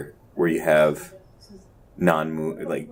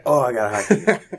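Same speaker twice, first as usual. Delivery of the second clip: wife's voice; 7 semitones higher, 5 dB louder than usual. Retold or imitated. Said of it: "my wife's like".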